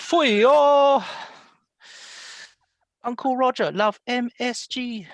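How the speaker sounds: high, loud comic Uncle Roger shout. Retold or imitated. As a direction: squeal it like a comedy uncle. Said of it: "You gotta copy, um, Uncle Roger".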